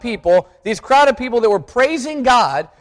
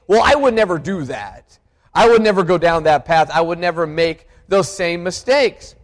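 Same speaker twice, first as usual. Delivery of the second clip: lower, self-satisfied muttered boast; preacher voicing the congregation's proud thought, lower; smug thought; 5 semitones lower than usual. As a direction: say it low, sure of yourself. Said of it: "and we think".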